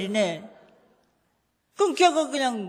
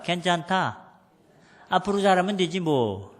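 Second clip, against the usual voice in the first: reassuring; 4 semitones lower than usual. Shown as a demonstration. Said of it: "따라서 합시다".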